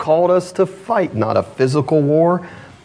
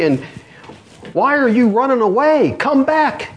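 commander calling back; 5 semitones higher than usual. Retold or imitated. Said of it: "is what the commander would say".

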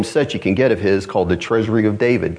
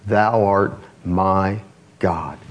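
slow, falling, reverent plea; heartfelt prayer, drawn out and fading; earnest cry to God; 3 semitones lower, much slower than usual. Retold or imitated. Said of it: "cry out like he's doing there".

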